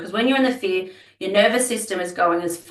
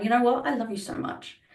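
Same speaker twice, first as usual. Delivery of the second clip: raised start, then much softer loving words; tender reassurance; 5 semitones higher, 3 dB quieter than usual. Retold or imitated. Mother soothing her fear as a child, tender and soft. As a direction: say it softly, like holding a child close. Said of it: "imagine your fear as your child ... holding your child".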